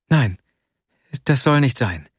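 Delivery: a touch of agitation, lightly voiced girl; agitated. Young woman refusing his lonely fate, mildly agitated. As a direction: protest it with mild upset. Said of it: "sagte sie erregt".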